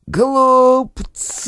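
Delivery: high, eerie hiss of a ghost; hissing spirit. Acted. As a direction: spit it like a faceless spirit. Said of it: "прошипела фигура".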